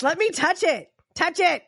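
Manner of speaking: hammed-up eager plea; eager Cass. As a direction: push it like he's desperate to touch. Voicing Cass insisting.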